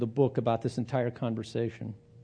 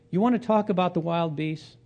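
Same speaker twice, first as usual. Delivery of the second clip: higher, challenging question; 4 semitones higher than usual. Retold or imitated. Job answers his friend's donkey insult, challenging question. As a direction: throw it back as a challenge.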